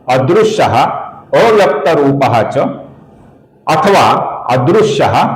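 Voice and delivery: each name set apart with pauses, recited carefully. Shown as a demonstration. Teacher reciting the shloka to viewers, measured recitation.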